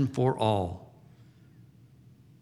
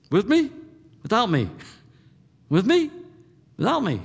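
pointed question; 8 semitones higher than usual. Acted. Jesus pressing the disciples to choose, pointed high questions. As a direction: press them to choose, voice leaping up.

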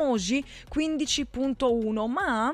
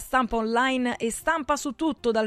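upbeat radio commercial voice; ad read. Acted. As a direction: sell it like a radio spot. Radio ad for printing.

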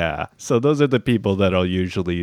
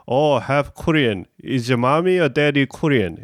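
Korean questioner; 4 semitones higher than usual. Retold or imitated. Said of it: "the Koreans are always like".

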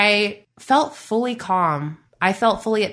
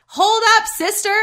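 high-pitched affronted protest; indignant; 13 semitones higher than usual. Acted. Coach balking at a rival's copycat course, indignant. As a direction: cut in, high and put out.

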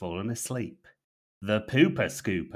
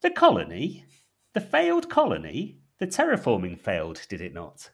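intrigued operative; 6 dB louder than usual. Acted. Operative hooked on the colony story, mock intrigued. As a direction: build the questions up eagerly. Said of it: "intrigued and leans so far".

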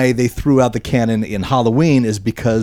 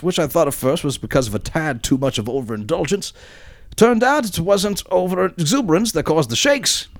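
put-on worst Blackpool accent. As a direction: read the listener email in a mock Blackpool accent. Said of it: "read it in my absolute worst accent".

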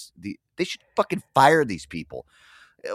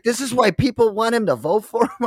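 higher, imitating his mom; 9 semitones higher than usual. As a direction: mom explaining, half-baffled. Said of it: "She's like".

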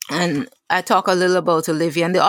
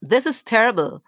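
higher, incredulous ranting at the news; mock outrage; 4 semitones higher than usual. Olivia fuming at the TV news, higher and outraged. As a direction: play the scandalised viewer throwing up her hands.

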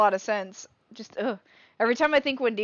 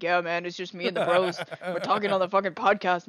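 bro voice; 2 semitones lower than usual. Pretend. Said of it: "I have to talk like a bro".

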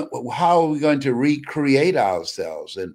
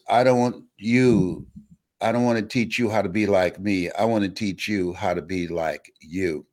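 quote remix; 5 semitones lower than usual. Shown as a demonstration. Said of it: "do a little quote remix on it".

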